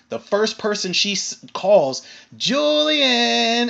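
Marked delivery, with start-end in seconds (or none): 2.4-3.7 high, drawn-out singsong call; stretched, high mock summons. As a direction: imitate someone hailing a person by name. Shelby calling out to Julian.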